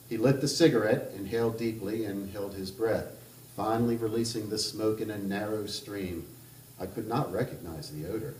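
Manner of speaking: measured reading of a literary novel aloud; even, unhurried narrator voice; story narration. A narrator's reading. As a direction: read it like an author at a book event.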